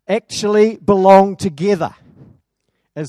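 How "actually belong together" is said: emphatic. Real, not acted. Preacher's climactic point.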